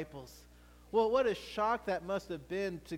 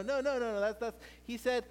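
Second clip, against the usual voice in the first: ordinary delivery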